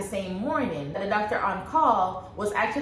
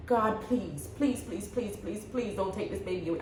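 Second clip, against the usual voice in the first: retold pleading; 8 dB quieter than usual. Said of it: "I started crying like crazy".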